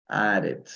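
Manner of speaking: "Added" in two clear syllables; last syllable pronounced. Shown as a demonstration. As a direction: sound the final -ed of "Added" as its own syllable. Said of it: "se pronuncia la tercera, la última sílaba".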